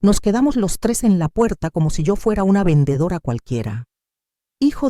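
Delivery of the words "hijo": slow. A narrator's reading. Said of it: "dije despacio".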